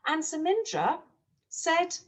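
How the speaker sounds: lively storytime narration with voiced characters; storyteller reading a farm tale to young children; story for children. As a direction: read it like a picture book to a class.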